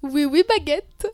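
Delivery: put-on cliché Parisian accent, drawn-out and a bit slow; mock French cliché. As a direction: parody the Parisian accent with a wink. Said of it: "refais jamais ça". (caricature d'accent parisien façon cliché)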